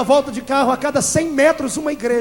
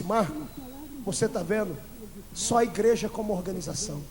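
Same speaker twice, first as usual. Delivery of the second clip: tearful pastor; 3 semitones lower, 8 dB quieter than usual. Retold or imitated. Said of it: "ele chorando".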